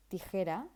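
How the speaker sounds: "tijera" with a Spanish t, no puff of air; Spanish unaspirated t. Shown as a demonstration. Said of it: "In Spanish, we say".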